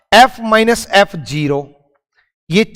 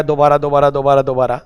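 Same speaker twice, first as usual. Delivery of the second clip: students asking for a repeat; 6 semitones lower, faster than usual. Retold or imitated. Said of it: "eighty percent comment आया".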